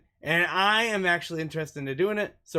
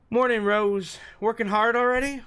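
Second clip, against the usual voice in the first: higher, louder bright hello; cheerful greeting; 7 semitones higher, 3 dB louder than usual. Acted. Allison greets Rose shovelling snow, higher cheerful call. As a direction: greet her brightly in passing.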